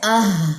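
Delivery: आह from the very back of the throat; sustained आह, airy H ending; deep-throat H demo. Shown as a demonstration. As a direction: let the H of आह breathe out long. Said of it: "गले के बिल्कुल आखिर में".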